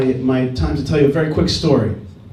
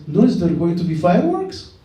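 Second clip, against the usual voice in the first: mock Russian accent, question rising at the end. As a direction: lightly imitate a Russian-accented mother. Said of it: "in Russian accent".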